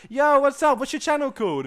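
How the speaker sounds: very high and loud mock greeting; squealed loud friendly hello; over-the-top cheery stranger. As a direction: ham up a hyped internet guy saying hi. Same stranger voiced.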